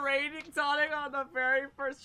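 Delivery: thrilled exclamation. Real, not acted.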